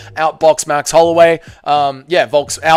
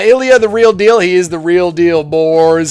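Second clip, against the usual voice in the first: excited; 4 dB louder than usual. Acted. Hyping Ilya to chat.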